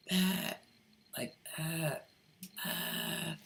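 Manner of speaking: a brief, soft demo of a guttural rasp; raspy guttural voice. Shown as a demonstration. Showing how some women sound, raspy and guttural. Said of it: "like a raspy kind of".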